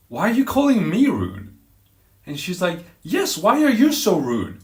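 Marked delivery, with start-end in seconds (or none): 0.1-1.5 loud, high indignant question; offended challenge. Retold or imitated. Acted quarrel, offended comeback. 3.0-4.6 loud, high, drawn-out accusation; annoyed retort. Retold or imitated. Acted quarrel, imitates angry woman.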